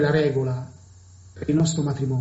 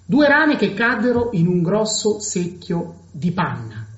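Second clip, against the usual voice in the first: ordinary talk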